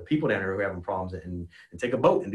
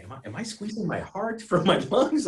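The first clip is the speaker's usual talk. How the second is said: laughing; 11 semitones higher than usual. Retold or imitated. Retold panicked thought mid-flight.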